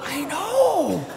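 high laughing really; laughing disbelief. Real, not acted. Preacher laughing at the servant's hypocrisy, incredulous. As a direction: laugh at how absurd it is.

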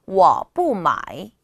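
워 뿌 마이 slow and loud, each tone separated; model pronunciation. Shown as a demonstration. Teacher joins the words for learners, slow exaggerated tones. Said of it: "두 번째".

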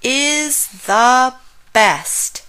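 slow, high, drawn-out praise; emphatic delight. A narrator's reading. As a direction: stretch each word out in delight. Frog praises the hotel, story climax.

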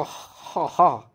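ha breathed out with the friction from the back of the mouth. Shown as a demonstration. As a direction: push the air out from the back of the mouth. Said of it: "pronounce in the back of your mouth".

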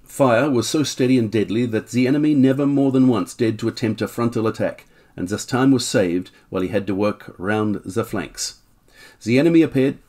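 put-on light German accent reading aloud. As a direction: reads the account with a German lilt. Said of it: "what am I doing a German accent for".

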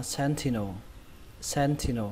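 sentinel with the stress on SEN; stress on first syllable. Shown as a demonstration. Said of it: "Trọng âm của nó rơi vào âm đầu tiên".

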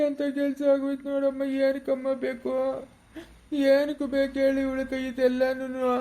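put-on grieving old man's tearful complaint; tearful lament. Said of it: "ಅಳ್ಬೇಡ, ಸುಮ್ನಿರು".

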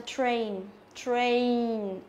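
"train" with a clear "tr" and long A; falling "train" with a full ay glide; correct model. Shown as a demonstration. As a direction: model "train" carefully, r sounded. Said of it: "đây là âm A".

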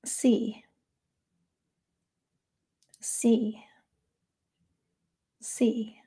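calm noting label, evenly spaced with long pauses; calm, matter-of-fact. Shown as a demonstration. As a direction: say it simply, as a neutral mental note. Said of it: "in a really calm, matter-of-fact way".

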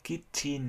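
KITCHEN as "kit-chin", both halves equally weighted; two equal syllables. Shown as a demonstration. Teacher showing the un-English way, KITCHEN with equal syllables. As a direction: say KITCHEN like two separate even words. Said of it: "là hai từ bằng nhau".

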